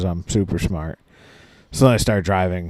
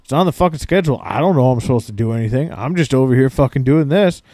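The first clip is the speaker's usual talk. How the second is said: fast, annoyed rant, lightly pitched up; imitating bitching; 4 semitones higher, faster than usual. Patient imitating the ultrasound guy bitching at coworkers, fast annoyed. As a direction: rattle off the complaint, mock irritated. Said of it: "the ultrasound guy bitching".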